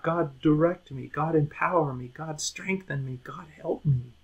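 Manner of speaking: humble prayer. Retold or imitated. Humble believer praying.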